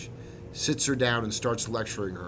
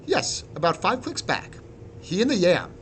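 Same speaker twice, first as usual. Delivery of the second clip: lightly voiced higher-pitched admiral; admiral character; 8 semitones higher, 4 dB louder than usual. A narrator's reading. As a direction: report in a raised character voice. Admiral's voice in narrated story.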